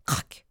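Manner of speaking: short voiceless crack; cracking noise. A narrator's reading. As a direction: snap the word like breaking wood. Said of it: "il entendit un craquement". (craquement sec imité)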